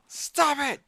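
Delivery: squeaky thrall voice. Retold or imitated. Thrall complaining to the player about the golem, high and squeaky. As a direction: whine it in a tiny high voice. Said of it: "It's like".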